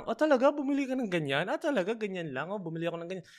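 high, delighted mock surprise at a rich friend's purchase; mock amazed listener. Imitating self cheering on rich friends, high and amazed. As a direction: gush over what they bought. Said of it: "pero ako parang".

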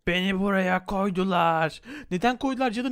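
slow, put-on trapped witch pleading; lightly voiced witch begging to be freed; a hint of a moaning witch. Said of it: "Hey cadı ne yapıyorsun".

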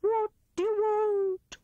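slow, high hooting demand; gruff owl. A narrator's reading. Owl at his door questioning Rat, gruff and slow. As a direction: ask it like a grumpy owl at the door. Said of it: "said he gruffly".

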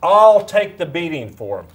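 high, loud, pleading no no no; pleading Jesus. Retold or imitated. Jesus begging the angry Father not to kill Eric, loud plea. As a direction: rush in begging the Father to spare him. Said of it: "And then here comes Jesus".

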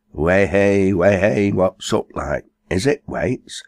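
put-on old Sam calling out from the grave; Sam's hearty greeting. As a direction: hail the living friend heartily. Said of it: "said Sam".

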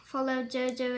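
pauses to chew between words; talking while chewing candy. Real, not acted. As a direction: mouth partly full. Seen 1: Lips pressed with chewing motions between phrases; candy unwrapped earlier.

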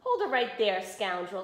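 stern mock shout; gruff farmer calling out. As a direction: bark it like a cross farmer. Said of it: "the farmer shouted".

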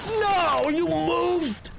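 real scream of fright. Real, not acted. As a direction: shriek as the monster moves. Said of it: "Sorry for screaming".

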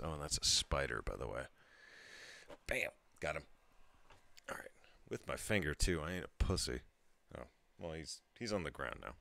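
tipsy, loose speech. Real, not acted. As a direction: talk like you've had a few. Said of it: "I'm really cool when I'm drunk".

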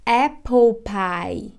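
smooth linked apple pie; teacher linking apple into pie slowly; apple pie, no pause. Shown as a demonstration. Teacher showing learners a linked apple pie. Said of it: "Veja que eu não paro".

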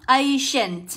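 "Ancient" said alone with a sh sound in the middle; careful citation of "Ancient"; pronunciation demo. Shown as a demonstration. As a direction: model "Ancient" clearly with sh. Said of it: "được đọc là âm sh".

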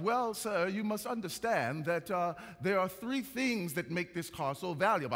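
putting on a fake British accent; lightly imitated fake British accent. Car salesman explaining the price to a customer, fake British accent. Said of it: "he said in his fake British accent".

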